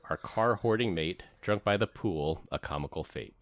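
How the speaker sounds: rhythmic, punchy poem reading; roast poem recital. Acted. Friend reading a roast poem to Glenn, rhythmic recital. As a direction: recite each couplet with comic swing.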